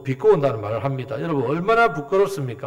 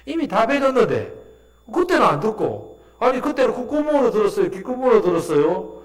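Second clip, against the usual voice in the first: higher-pitched, exasperated mock questioning; sarcastic retort; 6 semitones higher than usual. Healed blind man to the Jewish leaders, sarcastic. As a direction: needle them with incredulous questions. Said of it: "이렇게 비꼬았단 말이에요".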